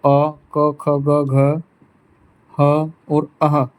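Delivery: आ क ख ग घ ह अह sounded out one by one, अह drawn out slowly; slow review of the throat letters. Shown as a demonstration. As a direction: sound each throat letter again for the class. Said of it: "कंठ से अ".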